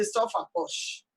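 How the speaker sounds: slow, hushed whisper of the proverb; whispered saying. Retold or imitated. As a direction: breathe the old saying out slowly. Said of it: "they say".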